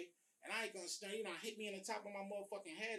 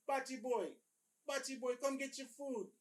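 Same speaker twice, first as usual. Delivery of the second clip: mocking call-out; 8 semitones higher, 7 dB louder than usual. Cellmate calling him at door.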